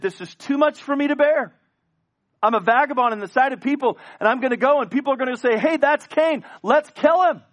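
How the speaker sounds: high, loud, anguished cry; Cain's loud despair. Acted. Preacher voicing Cain crying out in despair, loud and high. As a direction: cry out that the punishment is too much.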